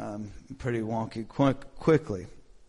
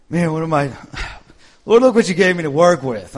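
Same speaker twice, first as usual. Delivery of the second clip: mock complaint to God; 2 semitones higher, 9 dB louder, faster than usual. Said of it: "I was going".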